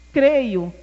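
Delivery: a sudden loud burst, falling; sudden loud cry of faith; blurted out. Retold or imitated. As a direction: blurt it out on impulse. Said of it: "assim, no supetão assim".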